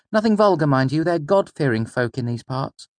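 high, mocking echo of the mayor. A narrator's reading. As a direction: parrot the mayor's pious warning. Father mimics the mayor's words.

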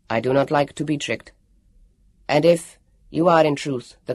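low, even and firm; determined android. Acted. Elio vowing to the warrior to go after her, low and firm. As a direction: refuse to be tricked. Elio's voice.

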